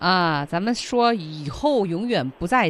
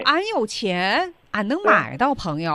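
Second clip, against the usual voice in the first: mock rich show-off; 3 semitones higher than usual. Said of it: "playing rich show-off".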